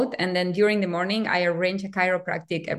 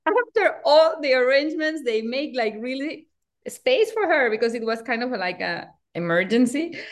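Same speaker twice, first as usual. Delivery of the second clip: retold indignation; 5 semitones higher than usual. Replaying her indignation at the cancellation.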